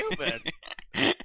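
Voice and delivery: Cuban said high in a botched Cuban accent; a Cuban accent that does not land; failed Cuban accent. Shown as a demonstration. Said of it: "I can't do the Cuban accent".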